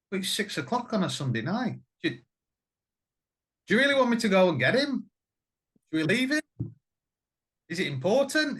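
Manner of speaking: high, whiny protest; mock pleading. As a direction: beg to get out of the drive. Retold pleading to wife.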